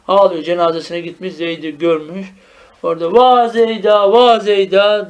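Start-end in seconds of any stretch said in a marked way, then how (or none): 3.1-5.1 drawn-out wail, lightly acted; mock lament. Teacher imitating someone who missed Zeyd's funeral, mock lament. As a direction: draw out the vowels as if calling after the dead. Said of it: "diyor, ağlıyor".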